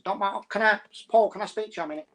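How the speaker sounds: a light attempt at a Mancunian accent; imitating a Mancunian tenant, not quite landing it; half-hearted Mancunian accent. A tenant asking the housing officer Paul for a word, in a weak Mancunian accent. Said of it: "I tried to do my Mancunian accent".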